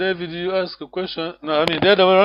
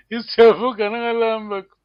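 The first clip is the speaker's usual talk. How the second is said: "Isiavo kana kalambako" pitched high, with a laugh before it; amused wondering question, lifting "Isiavo kana kalambako"; 4 semitones higher, 4 dB louder than usual. Shown as a demonstration. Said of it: "You wondering, yes".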